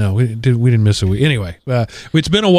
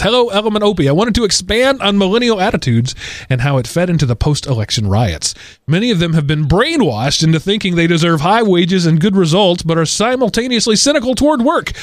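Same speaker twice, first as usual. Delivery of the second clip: higher-pitched read-aloud of a listener's email; emphatic letter reading; 5 semitones higher than usual. Acted. Reads listener feedback aloud.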